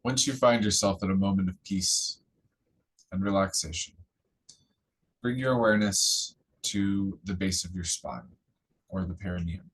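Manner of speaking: calm, measured phrases with long pauses; guided meditation. Real, not acted. Teacher leading listeners to focus on the root chakra, guided meditation. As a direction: guide their attention gently, phrase by phrase.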